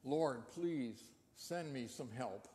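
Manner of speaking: soft, slow, pleading prayer; fervent quiet prayer. Retold or imitated. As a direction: plead quietly with the Lord, slowly. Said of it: "she fervently prayed".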